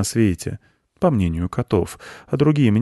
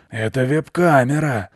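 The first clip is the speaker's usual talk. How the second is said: higher, proud announcement; 7 semitones higher than usual. A narrator's reading. Goat explains the thing on his horns, proudly. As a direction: show it off with pride. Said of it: "сказал Белый с гордостью".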